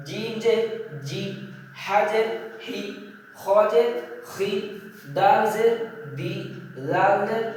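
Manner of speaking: measured Arabic letter drill, a pause before each syllable; Quran-class recitation of letters; pronunciation demonstration. Shown as a demonstration. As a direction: spell out letter, vowel sign, then syllable, evenly. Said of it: "একে একে সবগুলো উচ্চারণ করে শোনাচ্ছি".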